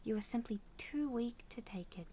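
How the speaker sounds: cold whispered taunt; menacing whisper. Acted. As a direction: whisper the contempt. Villain whispers contempt.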